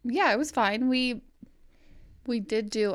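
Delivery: talking with bread in mouth; mouth full. Real, not acted. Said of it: "I still have bread in my mouth".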